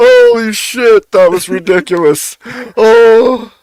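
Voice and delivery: high, swooping, tearful laughing so hard. Reacting with others to something ridiculous; laughing to tears. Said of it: "Now I'm actually cry laughing".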